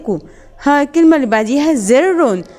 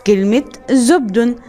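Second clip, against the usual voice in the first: slow model word; slower than usual. Shown as a demonstration. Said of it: "أول كلمة عندي هنا".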